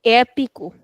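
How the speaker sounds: "épico" with the first e open and long; extended vowel. Shown as a demonstration. Teacher introducing the next accent example, long open e. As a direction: hold the opening e of "épico". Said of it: "we are extending the sound".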